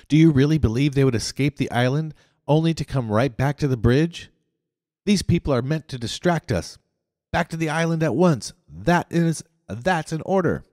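high, loud, scornful commanding rant; terrible voice. A narrator's reading. Leader berates his recruiters in a high, loud furious voice. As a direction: berate them and bark orders. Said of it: "in his most terrible voice".

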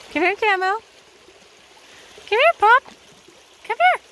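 high, loud call to the horses; calling horses from across the creek, high and loud. Real, not acted. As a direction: call them over, rising each time.

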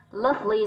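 lovely stressed on "love"; first-syllable stress. Shown as a demonstration. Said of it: "rơi vào âm một". (nhấn âm tiết đầu của lovely)

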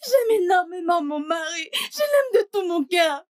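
crying while pleading; tearful pleading. Acted. Wife pleads to her mother through tears. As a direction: sob out the love for him.

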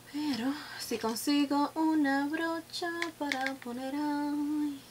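breathy whisper to herself; thinking aloud in a hush; whispering while working. Real, not acted. Muttering while applying makeup.

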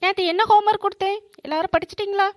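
brisk, stern teacher telling off the class; a lightly voiced angry teacher; teacher scolding students who did not study.

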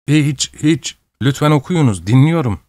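a touch of meekness, head bowed; meek reply. Acted. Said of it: "boynu eğik surette söylendi".

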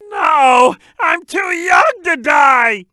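slow, drawn-out cry of dread; hammed-up terror. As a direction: wail it out in cartoonish panic. Character fears imminent death.

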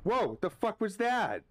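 tense, rising into a startled cry; nervous, then jolted by a fright; scared horror game streamer. Real, not acted.

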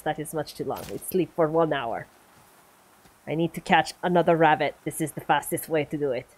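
mock Russian accent over game commentary. Gamer attacking a viewer on request, in a Russian accent. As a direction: keep up the put-on Russian accent. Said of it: "I will do my best to attack you with Russian accent".

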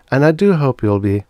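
loud, cut-off robot loop; jammed robot voice. Acted. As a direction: let the machine jam mid-line. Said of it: "vocal mechanism jams".

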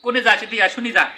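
calling someone over in Rangpur dialect. Shown as a demonstration. Calling someone over in Rangpur dialect. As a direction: call out across the yard, village style. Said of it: "আর মোর ভাষায়".

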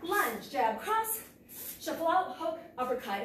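calling strikes while punching; punching through the combo; hitting a punching bag. Real, not acted. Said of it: "I got my own footwork wrong".

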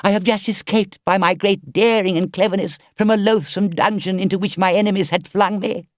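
high, loud begging Toad, slowing at the end; desperate pleading. Acted. Toad on his knees begging the engine driver, desperate. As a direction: beg for rescue in full self-pity.

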